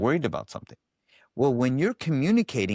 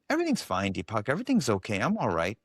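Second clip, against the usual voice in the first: smooth false cheer. Retold or imitated. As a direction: sound breezy while hiding anger. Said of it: "Her voice sounded very smooth".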